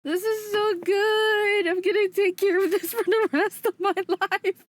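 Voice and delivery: high, drawn-out wail of delight; overwhelmed gushing. Real, not acted. Streamer vowing to treasure the book, overwhelmed gushing. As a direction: gush high, breaking into a laugh.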